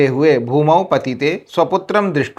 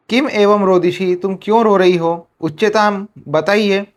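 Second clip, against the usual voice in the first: a slightly higher, concerned question, only lightly voiced; Indra asking; 4 semitones higher than usual. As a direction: ask gently why she cries, a touch higher. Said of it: "क्या बोले?". (थोड़े ऊँचे स्वर में हल्की चिंता से पूछना)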